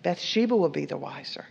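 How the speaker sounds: voiceless whisper, soft and low. Real, not acted. Preacher warning the congregation, whispered. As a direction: drop to a knowing whisper. Repeated line, now whispered.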